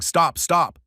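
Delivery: a high, urgent plea to stop, lightly acted; high panicked voice. A narrator's reading. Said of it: "in this high, panicked voice".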